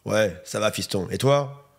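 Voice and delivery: low, curt fatherly grunt of an answer; terse dad. Retold or imitated. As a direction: play the dad who says as little as possible. Son voices his terse father on phone.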